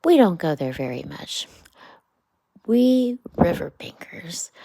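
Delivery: storybook Rat, half whispered, half declaimed; Rat, lightly voiced. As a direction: Rat grumbling about the crowded bank. Rat answers about the Wild Wood.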